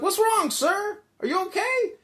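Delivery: high, loud questions rising at the end; hammed-up urgent concern; concerned bystander. Storyteller replays checking on a fallen man, concerned.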